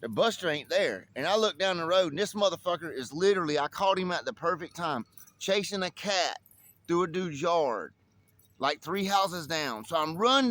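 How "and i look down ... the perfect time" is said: ordinary talk, nothing marked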